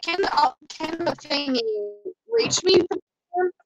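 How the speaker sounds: flat robot voice. Pretend. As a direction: speak like a robot. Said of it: "you went robot voice there".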